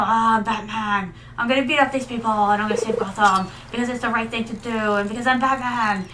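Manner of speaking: mock the cold modern Batman's self-importance; mock tough Batman. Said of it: "That's not how he was like".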